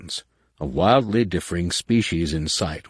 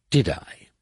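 chirpy. Acted. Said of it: "she chirped sunnily".

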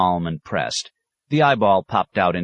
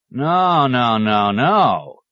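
sharp, louder repeated protest; loud objection; 6 semitones higher, 5 dB louder, much slower than usual. Acted. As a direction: cut in with firm loud nos. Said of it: "objected the poet".

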